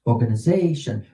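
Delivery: quick, run-together "Organization"; said fast. Shown as a demonstration. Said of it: "Say it real fast".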